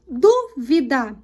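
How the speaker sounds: "Dúvida" slowly in separate syllables, DÚ strongest; stress on DÚ. Shown as a demonstration. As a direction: break "Dúvida" into DÚ-VI-DA, punching DÚ. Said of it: "O du é a sílaba tônica". ("Dúvida" sílaba por sílaba, com força no DÚ)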